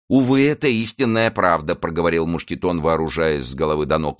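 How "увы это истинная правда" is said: rueful servant. A narrator's reading. Servant laments his forgetfulness.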